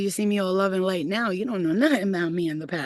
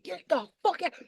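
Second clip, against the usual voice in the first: retold angry order; 10 semitones higher, 4 dB quieter than usual. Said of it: "I said".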